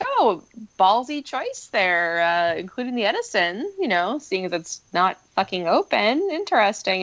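dry mock compliment; sarcastic. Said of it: "I'm like".

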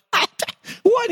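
short stunned double what; mock shock. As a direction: pretend disbelief at the grade. Gets back an F paper.

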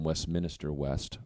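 "Westminster West" with an extra syllable, west-minister west; Vermont pronunciation. Shown as a demonstration. Saying where he's from, "Westminster" said like west-minister. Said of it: "becomes Westminster".

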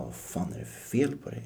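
unvoiced mock whisper of disbelief; whispered retort. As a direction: hiss it at him like a puzzled friend. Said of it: "han bara".

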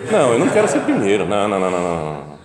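put-on the young man refuses to be the first Italian, loud and fast; mock emphatic refusal. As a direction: blurt out the refusal in a rush.

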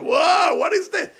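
put-on high, loud kid-like wonder; imitated amazement. Father imitating his kids discovering a tape, amazement. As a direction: act out astonishment at a strange object.

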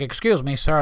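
lightly mocking stereotypical white guy voice. Comic mimicking a hacky act's "white guy", lightly put-on white guy voice. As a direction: send up a comedian's hacky white guy impression. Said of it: "went into that white guy voice".

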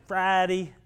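gleeful Friday daydream, building up; excited inner thoughts. Retold or imitated. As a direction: savor the weekend plans out loud. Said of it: "and I'm thinking".

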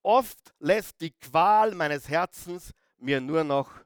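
slow, weighted psalm recitation; solemn scripture reading. Acted. Preacher reading David's lament to the congregation, slow and solemn. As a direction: let each phrase land slowly, with pauses.

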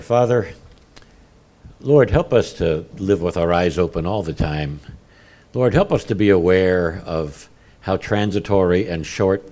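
reverent prayer voice; closing prayer. Acted. Pastor closing the sermon in prayer, reverent. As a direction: pray earnestly to the Father.

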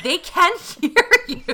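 breathy laugh through the words; laughing half-whisper. Real, not acted. Host laughs at stylists insulting the models, half-whispered. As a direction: giggle it out under the breath. Laughing at mean hairstylist comments.

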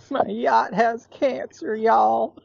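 slow, high, laughing drawl. Retold or imitated. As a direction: laugh the words out slowly. Repeats joke while laughing.

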